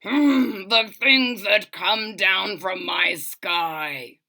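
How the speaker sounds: slow muttering king voice; a slow, displeased royal mutter; grumbling old king. Acted. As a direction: grumble it into your royal whiskers. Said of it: "muttering and sputtering through his royal whiskers".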